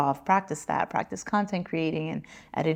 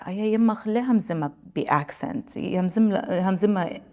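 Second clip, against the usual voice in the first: 1 imitating fans; 2 semitones higher, faster than usual. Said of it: "they'd say".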